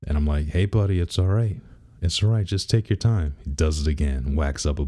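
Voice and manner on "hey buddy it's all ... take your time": higher-pitched coaxing voice; retelling a soothing pep talk; retold reassurance. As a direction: gently talk a frustrated kid down. Dad calming frustrated son, retold.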